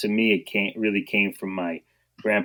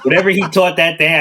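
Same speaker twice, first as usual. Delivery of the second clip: words through a laugh, higher and louder; 8 semitones higher, 7 dB louder than usual. Real, not acted. Guest laughing at his own panic, telling the host.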